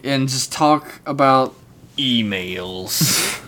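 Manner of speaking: slow grand announcer intro; big introduction. Acted. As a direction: draw it out like a host. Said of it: "when I'm doing the big introduction".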